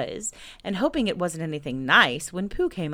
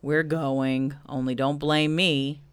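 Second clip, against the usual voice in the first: lightly voiced glum donkey; resigned Eeyore; 3 semitones lower, slower than usual. Eeyore follows the expedition under protest, glum and resigned. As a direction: grumble along reluctantly.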